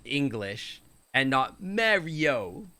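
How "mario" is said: Mario with a New York accent; drawn-out New York Mario. Shown as a demonstration. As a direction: mimic a New Yorker saying Mario. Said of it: "you're gonna do from New York".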